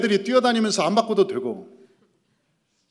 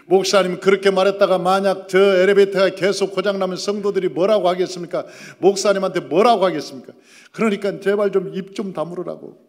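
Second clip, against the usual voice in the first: emphatic preaching; 6 dB louder than usual. Real, not acted. Preacher raising voice to congregation.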